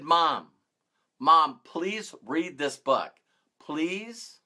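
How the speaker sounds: gently beg, softening on the last word; gentle pleading. Retold or imitated. Daughter urging her depressed mom to read, gentle pleading.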